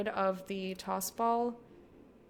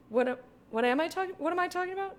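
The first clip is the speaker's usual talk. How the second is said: flustered laugh; 8 semitones higher, much faster than usual. Real, not acted. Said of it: "I don't know".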